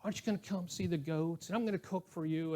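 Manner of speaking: gently imitated Southern accent, friendly and coaxing; light southern accent. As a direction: lightly voice a Southern church lady inviting her pastor over. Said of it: "with that southern accent".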